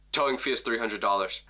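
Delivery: low, understated counter-clerk delivery; bored clerk. Retold or imitated. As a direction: state the fee like a jaded desk worker. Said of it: "looks like he hates his job".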